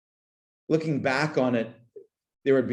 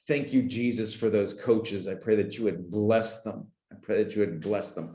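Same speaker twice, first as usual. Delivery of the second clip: low, sincere thanks in prayer; earnest blessing at a lowered pitch; heartfelt prayer; 3 semitones lower than usual. Real, not acted. Brief prayer of thanks for coaches.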